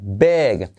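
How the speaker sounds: "big" with an open vowel, close to "beg". Shown as a demonstration. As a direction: shade the I of "big" towards E. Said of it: "I como E". ("big" con la I como E)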